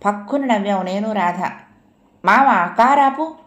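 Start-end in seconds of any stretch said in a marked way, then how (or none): 2.2-3.4 sudden loud cry, higher and slowed; sudden yell. A narrator's reading. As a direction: yell it out like he's been stung by a scorpion. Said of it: "గావు కేక పెట్టాడు చలపతి".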